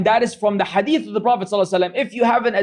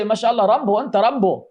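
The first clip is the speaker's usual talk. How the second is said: mock Arab accent. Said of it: "with the Arab accent".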